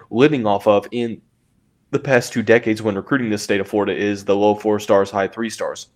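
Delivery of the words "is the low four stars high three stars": talking through hiccups; words broken by a hiccup. Real, not acted. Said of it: "Excuse me, I have the hiccups".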